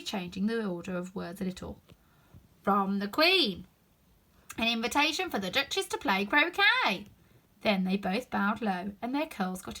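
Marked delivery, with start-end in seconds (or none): 2.6-7.1 pompous footman echoing the invitation; solemn tone. A narrator's reading. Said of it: "repeated in the same solemn tone".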